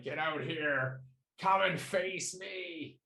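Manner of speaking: half-hearted battle yell; mock yelling challenge. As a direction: call out a challenge, stretching the words. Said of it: "like, swearing and yelling and infernal".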